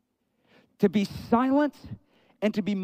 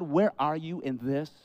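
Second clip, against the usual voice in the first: quiet question; 5 semitones lower, 6 dB quieter than usual. Retold or imitated.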